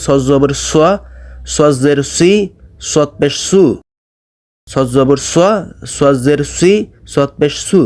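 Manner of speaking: স pronounced thick and rounded, "so"; heavy sad drill. Shown as a demonstration. Teacher drilling the letter, thick rounded স. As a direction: spell out স জবর স with a full heavy s. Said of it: "সদটা উচ্চারণ করবেন".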